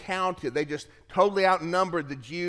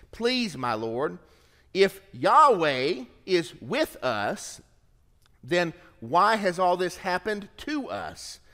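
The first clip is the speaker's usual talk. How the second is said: slow, dripping with sarcasm; sarcastic; 3 semitones higher, slower than usual. Acted. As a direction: let the sarcasm drip, slowly. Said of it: "You can hear the sarcasm dripping".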